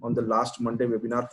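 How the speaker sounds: ordinary delivery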